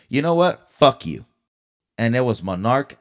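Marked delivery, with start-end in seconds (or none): 0.1-1.3 loud, cutting "Fuck you"; angry outburst. Real, not acted. Ranting at the dental office, a real angry outburst. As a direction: spit it out at them, fed up.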